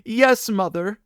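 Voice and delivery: high child's lament, lightly acted; bitter sobbing. A narrator's reading. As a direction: insist tearfully in a high child voice. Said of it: "the child sobbed more and more bitterly".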